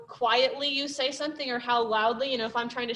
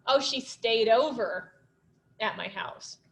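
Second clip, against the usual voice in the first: hint at something more, letting it fade; suggestive. Shown as a demonstration. Teacher showing a second reading, knowing and trailing off. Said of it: "we can say the same sentence in different ways".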